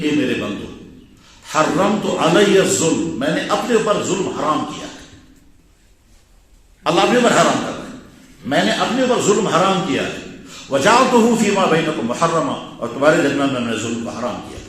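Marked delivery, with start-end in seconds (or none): 1.5-3.2 slow Arabic recitation. Acted. 10.7-12.8 slow Arabic recitation. Acted.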